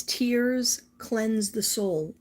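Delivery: very slow, weighted reading; card read-out. Real, not acted. Reading viewers the card that came up, slow solemn read-out. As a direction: spell out the message word by word, drawn out.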